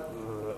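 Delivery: low, quiet groan of defeat; weary groan. Retold or imitated. Would-be gym-goer a week into January, weary groan. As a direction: groan softly as resolve gives out. Acting out January resolve collapsing.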